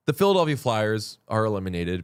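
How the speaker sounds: somber newscaster voice. Pretend. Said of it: "You just did somber, somber newscaster voice".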